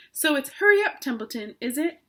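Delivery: high, loud mocking mimic of the pig; imitating Wilbur. Rat mocking the pig's voice to tease him. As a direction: parrot the pig's pleading mockingly. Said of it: "He began imitating Wilbur's voice".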